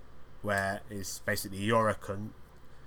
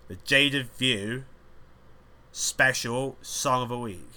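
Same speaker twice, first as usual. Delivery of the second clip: slow announcement; 2 semitones higher, 3 dB louder, slower than usual. Acted. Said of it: "we're gonna have".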